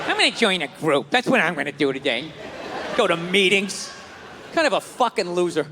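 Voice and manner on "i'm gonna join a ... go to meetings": mock dopey joiner. Mocking group joiners, low voice.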